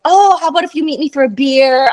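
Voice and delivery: lightly acted eager invitation; a touch of excited pickup; excited, happy waiter. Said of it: "he got all excited and all happy".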